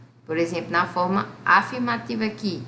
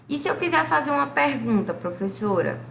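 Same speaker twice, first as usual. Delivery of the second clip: higher, curious pupil asking; student's question; 6 semitones higher than usual. Acted. Teacher voices a student asking how to make a question. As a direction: ask like an eager student.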